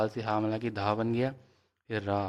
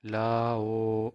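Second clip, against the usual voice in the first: slow blended syllables; much slower than usual. Shown as a demonstration. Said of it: "واو ہمزہ پیش او".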